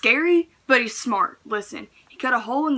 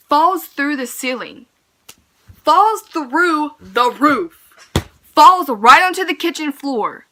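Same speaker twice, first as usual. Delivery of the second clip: each retelling climbs higher and louder; building disbelief; 5 semitones higher, 10 dB louder, slower than usual. Real, not acted. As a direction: pile it on, more shocked each time. Brother crashes through the roof.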